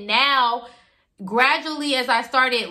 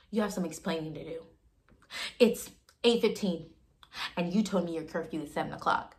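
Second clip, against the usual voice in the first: low, much softer scolding like a strict father; stern fatherly scolding; 6 semitones lower, 9 dB quieter than usual. Retold or imitated. Jealous older man scolding her about curfew, low and quiet.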